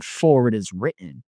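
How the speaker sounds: "written" lifted at the end in mild mockery; lightly mock with a rising tune on "written". Tempter quotes scripture back at him, mildly mocking. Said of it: "he mocked and he went".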